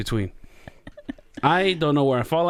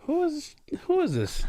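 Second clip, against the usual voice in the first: retold bewilderment. Acted reaction to the customer.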